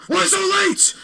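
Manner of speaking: very high, baffled repeat of the question; confused echo. Retold or imitated. Wyatt repeats the teacher's question, very high and baffled. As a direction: echo it back in shocked disbelief.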